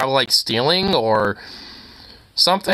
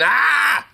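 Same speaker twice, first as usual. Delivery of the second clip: mock scream; 12 semitones higher than usual. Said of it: "she just started going".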